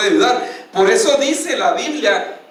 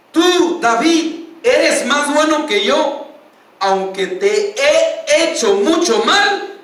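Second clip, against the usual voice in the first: rey arrepentido llorando; 4 semitones higher, slower than usual. Acted. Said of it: "y empieza a llorar a gritos".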